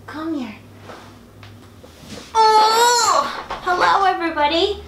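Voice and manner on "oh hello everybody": bright high-pitched hello; high cheery greeting. Real, not acted.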